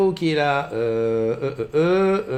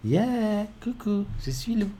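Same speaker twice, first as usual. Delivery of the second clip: higher voice through a voice-changer effect; a pitched-up cartoon filter voice; 6 semitones higher, 4 dB quieter, slower than usual. Shown as a demonstration. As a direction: show off the funny voice filter. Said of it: "regarde ce que ça fait".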